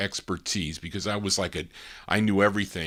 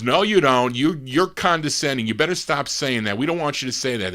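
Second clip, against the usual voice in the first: louder, higher, upset protest; mild retold scolding; 5 semitones higher, 5 dB louder than usual. Upset staff telling the consultant off, mildly scolding. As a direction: lightly imitate a telling-off.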